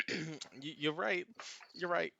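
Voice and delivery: choked-up student. Acted. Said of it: "clears his throat and he goes".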